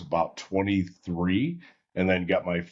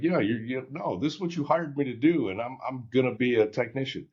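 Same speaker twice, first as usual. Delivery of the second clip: retold indignation, higher-pitched; mildly mad teenager pushing back, voice raised in pitch; mad protest; 6 semitones higher than usual. Young technician refusing his service director, indignant higher protest. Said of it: "I'm kinda mad".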